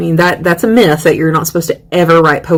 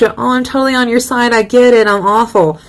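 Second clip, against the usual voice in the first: higher, put-on self-abasement; mock agreement; 5 semitones higher than usual. Poet siding with her critics, mock agreement. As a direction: give in to them in a raised voice.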